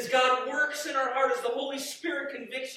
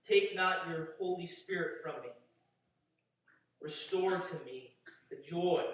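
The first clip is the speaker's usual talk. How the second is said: scripture reading; 3 semitones lower than usual. Acted. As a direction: read the psalm with reverence. Reads Psalm 51 aloud.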